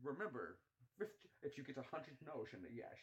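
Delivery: a hint of Sean Connery. Connery lecturing about no's, soft Scottish accent. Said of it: "the Sean Connery one".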